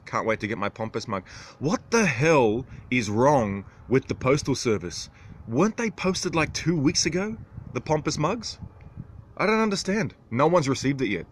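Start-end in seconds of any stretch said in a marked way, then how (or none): 1.6-11.3 high-pitched, incredulous complaint; exasperated disbelief. Real, not acted. Complaining about the postal service losing mugs, exasperated disbelief. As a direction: climb high in baffled indignation. Baffled by the late mug delivery.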